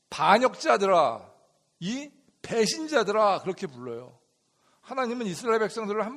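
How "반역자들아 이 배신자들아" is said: slow, hurt name-calling as Moses; mock accusation. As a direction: berate the people, word by word. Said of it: "마음이 많이 상한 거예요". (상처받아 꾸짖듯이)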